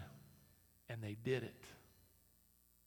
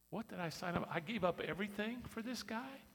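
grumbling disciple; 8 semitones higher, 7 dB louder than usual. Acted. Disciple grumbling about donkey duty.

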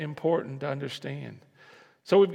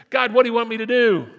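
louder, faster call-and-response; congregation refrain; 5 semitones higher, 9 dB louder, faster than usual. Shown as a demonstration. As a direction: lead the church in saying it aloud. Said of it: "Would you say that with me?".

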